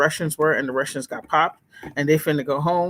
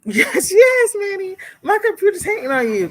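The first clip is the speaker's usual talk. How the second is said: laughing squeal; 5 dB louder than usual. Real, not acted. Laughing at computer pop-up with Manny.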